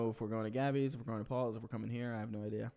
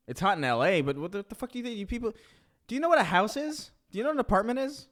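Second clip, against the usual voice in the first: outraged shout; 9 semitones higher, 8 dB louder than usual. Real, not acted. Mock outrage at Seattle friend.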